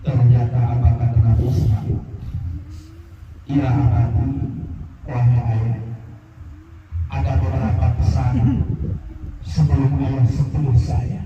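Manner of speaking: solemn Ismail. Acted. Son's last requests, solemn.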